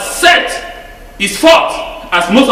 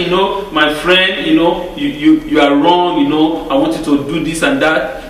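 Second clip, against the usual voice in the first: mock pampering; 6 semitones lower than usual. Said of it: "pamper me and say".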